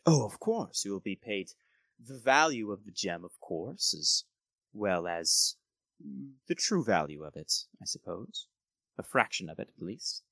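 lightly voiced courteous nobleman, bargaining; a hint of an oily noble negotiating; smooth lord Gerald.

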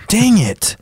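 high-pitched mock exasperation; oversold frustration. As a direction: ham up the fake annoyance. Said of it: "Just, like, really sell it".

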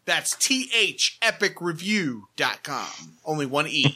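mild take on a co-host reading out a web address; impersonation of Brad. Retold or imitated. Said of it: "impersonation of Brad".

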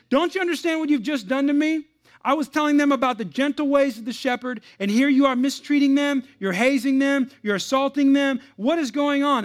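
high, loud, indignant shouting; outraged scream. Retold or imitated. Agitated tour guide confronting a sheep chaser, outraged screaming. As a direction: yell it as the scandalized tour guide. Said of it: "screamed at the man".

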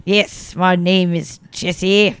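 put-on slow, dramatic South African accent. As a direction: imitate a posh South African friend, taking your time. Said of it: "his accent's, like, really fun".

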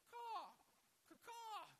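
high, loud mock raven cawing; awful raven caw. Shown as a demonstration. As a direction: squawk it like a bad raven. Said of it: "that was an awful raven".

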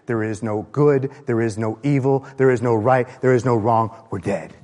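low, even-pitched recital of despair; bleak litany. Acted. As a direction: intone each denial low, as a hopeless verdict. Voicing the poem's godless despair.

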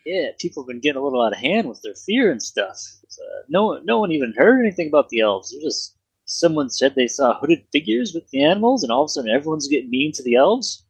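lightly voiced Canadian pub keeper; a hint of put-on Canadian barkeep; mock Canadian accent. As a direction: share town gossip with a slight Canadian accent. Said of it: "And he had an accent".

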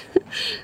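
soft, breath-only chuckle; gloating little laugh. Acted. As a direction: laugh softly at your sister's expense. Pleased at sister's imagined swoon.

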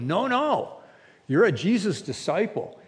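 high, insistent no no of an accuser; accusing woman. Retold or imitated. Woman confronting Peter, insistent and high. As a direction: corner him with it.

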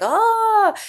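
high swooning gasp; a dreamy, lovestruck gasp; imitating Scully's swoon. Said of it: "eventually she's like".

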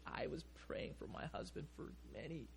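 a soft, small voice held back by tears. Retold or imitated. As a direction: speak it small and tearful, barely holding on. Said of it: "in her small voice".

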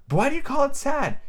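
high-pitched, puzzled little question. A narrator's reading. Alice asks the mouse about its tale, high and puzzled. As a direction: ask it high, genuinely puzzled.

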